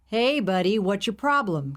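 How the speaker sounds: lightly voiced friendly trucker; genial driver. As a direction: call out a good-natured greeting. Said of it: "came the genial query from the driver".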